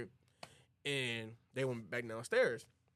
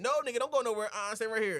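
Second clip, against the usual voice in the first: raised, louder command; acted firm order; 9 semitones higher, 5 dB louder, faster than usual. Slim stops the groom leaving, raised firm order. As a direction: stop him from dipping off.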